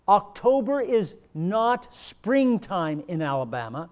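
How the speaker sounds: firm, declarative sermon delivery; emphatic preaching. Real, not acted. Preacher tells congregation confusion does not alter facts, emphatic preaching. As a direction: drive each point home like a preacher.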